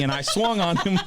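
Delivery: high laugh bursting through the words. Real, not acted. Telling how he swung at the kid, laughing high. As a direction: crack up at your own blunder. Laughing at his own mistake.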